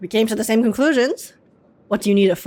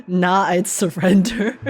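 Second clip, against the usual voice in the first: laughing; 3 semitones lower, slower than usual. Real, not acted. Mocking meme line, laughing.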